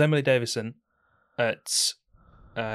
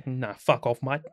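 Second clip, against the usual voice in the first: Aussie accent that slips into Essex; attempted Australian accent; 4 dB quieter, slower than usual. Shown as a demonstration. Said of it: "That wasn't Australian".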